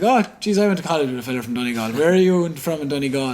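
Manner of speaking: re-enacted eager surprise, pitch jumping up; retold excitement. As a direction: act out a keen "oh, jeez" reaction. Retold excited reply to the surgeon.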